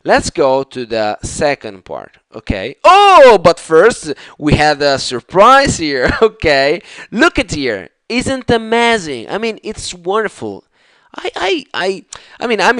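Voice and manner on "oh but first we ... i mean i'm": excited. Real, not acted. Excited surprise at picture.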